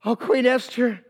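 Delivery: stammered mock pleading, rising in pitch; begging for life. Haman begs Queen Esther for his life, mock pleading. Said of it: "he's begging for his life".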